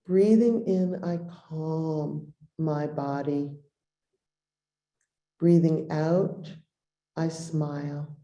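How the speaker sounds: unhurried lines with room to breathe; guided meditation. Acted. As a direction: lead a breathing practice, leaving long pauses.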